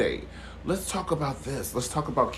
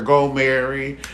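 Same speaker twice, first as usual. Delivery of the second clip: crowd hype; 2 semitones higher, 7 dB louder than usual. Retold or imitated. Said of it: "the crowd be hyping her".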